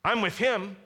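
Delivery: high, loud pledge of loyalty; hammed-up eager boast from the followers; talking big. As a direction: chime in with overblown confidence, stretching the words. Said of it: "talking big".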